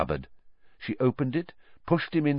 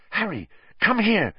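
urgent; 11 semitones higher than usual. A narrator's reading. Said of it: "she said urgently".

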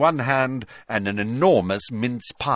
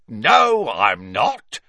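a gleeful, tattling caretaker; Filch; 2 semitones higher, 6 dB louder, much slower than usual. A narrator's reading. Filch voiced.

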